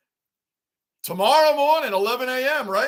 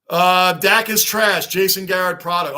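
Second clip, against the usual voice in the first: loud, slow, dismissive verdict; blunt hot take; 7 dB louder than usual. Real, not acted. Streamer dunking on the quarterback, loud and slow. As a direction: drag it out like a final ruling.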